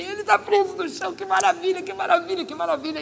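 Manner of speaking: excited praise. Retold or imitated. Clamouring praise to God.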